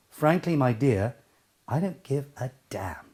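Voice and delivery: measured line, with "damn" set apart; stress on DAMN. Shown as a demonstration. Coach showing the right way, deliberate weight on "damn". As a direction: space out "give a damn", landing on "damn". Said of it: "The most important part of that sentence".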